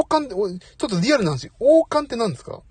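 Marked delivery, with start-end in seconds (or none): 1.6-2.6 "王冠ってなんですか？" asked again higher and louder, stressing 王; louder repeated question. Real, not acted. Streamer asking viewers again, louder and higher. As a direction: call the question "王冠ってなんですか？" out to chat, pitched up and louder.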